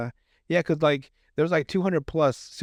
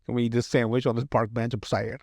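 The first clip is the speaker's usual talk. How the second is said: mock sad voice; 2 semitones lower than usual. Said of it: "never seen someone saddy before like that".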